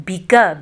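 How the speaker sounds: बिका with a stretched long kaf vowel; mispronounced ending; wrong way. Shown as a demonstration. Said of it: "काफ को लंबा नहीं करना".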